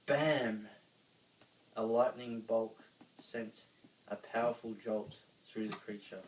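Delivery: ordinary delivery, nothing marked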